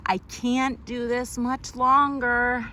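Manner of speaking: slow, tired whimpering plea; crying. Acted. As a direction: say it like you're about to cry. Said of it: "read that crying one again".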